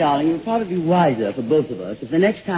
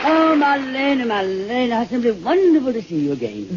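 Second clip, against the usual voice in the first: gushing greeting; 8 semitones higher than usual. Acted. Greeting a famous guest.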